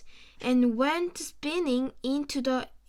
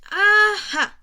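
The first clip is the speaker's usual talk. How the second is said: loud, high burst of discovery; excited aha; 6 semitones higher, 10 dB louder than usual. A narrator's reading. Mister Croc spots a clue in the hedge, loud and excited. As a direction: pounce on the clue. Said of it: "said Mister Croc".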